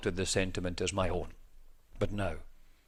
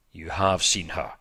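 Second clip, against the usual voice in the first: resentful; 3 semitones lower, 4 dB louder than usual. A narrator's reading. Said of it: "with an accent of resentment".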